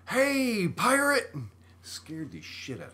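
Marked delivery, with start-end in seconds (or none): 0.1-1.3 put-on high, loud shout of a little kid; kid yelling. A little kid shouting out a truck window at a pirate, loud and high. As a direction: yell it out like an excited six-year-old. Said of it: "leans out the window and goes".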